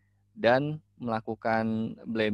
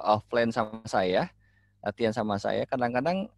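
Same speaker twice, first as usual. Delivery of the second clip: ordinary talk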